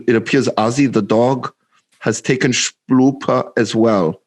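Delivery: put-on measured, botched Russian accent; retry the line in fake Russian accent. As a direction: Germanic attempt at a Russian accent. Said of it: "the one with the Russian accent".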